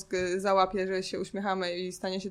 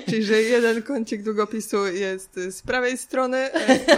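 laughing; 6 dB louder than usual. Real, not acted. Laughing at pen demo.

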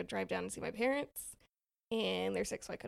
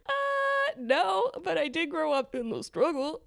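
amused retort; 6 semitones higher, 5 dB louder, slower than usual. Retold or imitated. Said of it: "I was like".

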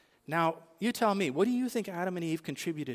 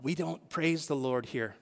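slow, lightly voiced reproach; a hint of the stern neighbour in the pew; lady's scolding. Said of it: "and she said".

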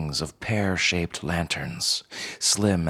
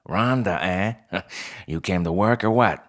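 fox voice; 2 semitones higher than usual. Acted. Fox manager Pell speaks.

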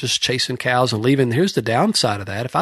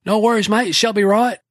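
New Zealand mate calling back, no worries; imitating New Zealand accent; 9 semitones higher than usual. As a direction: shout it easy-going like a New Zealand rancher. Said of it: "Laurie would yell back out at me".

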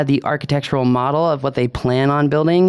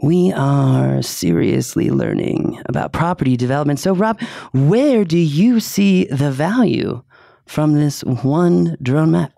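lightly voiced smooth radio DJ; late night DJ voice. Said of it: "Let me get in my late night E J voice".

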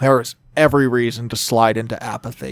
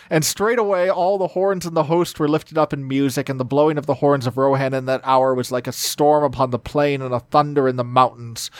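story narration. A narrator's reading. Reading Tolkien aloud.

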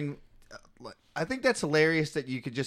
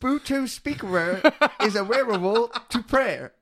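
put-on high, loud Thai-accented robot announcement; 7 semitones higher, 4 dB louder than usual. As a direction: mimic a Thai-accented speaker prompt, laughing. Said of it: "robot voice at the beginning has a very thick Thailand accent".

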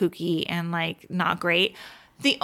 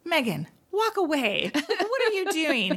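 laughing quote; 8 semitones higher than usual. Retold or imitated. Quoting a reality show line.

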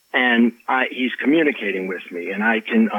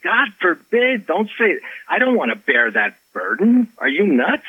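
retold alarmed protest; 7 semitones higher than usual. Retold alarmed refusal of medium label.

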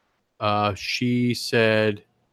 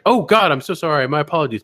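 mock-flustered apology; over-polite, lightly acted contrition; polite creep; 3 semitones higher than usual. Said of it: "is the polite rapist".

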